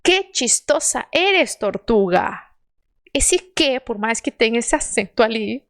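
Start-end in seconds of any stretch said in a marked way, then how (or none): 0.0-2.3 slow, clear Spanish with a closed "Que"; slow model sentence. Shown as a demonstration. Teacher models the sentence for students to repeat. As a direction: read "Que chistosa eres, tortuga" slowly, closed e. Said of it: "Então".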